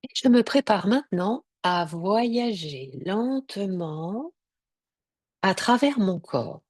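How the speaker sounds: unhurried Yoga Nidra guidance with long pauses; measured relaxation-session voice, leaving space between phrases; guided meditation. Real, not acted.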